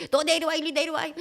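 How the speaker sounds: high-pitched mock challenge; acted road rage. Husband ordering another driver out of the car, angry.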